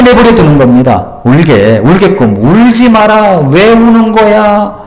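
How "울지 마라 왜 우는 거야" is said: put-on higher, slow stern parent telling a child to stop crying; mock a strict parent hushing a crying child; a touch of an old-school parent snapping at tears; scolding parent. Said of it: "옛날에 많이 듣던 말이잖아요".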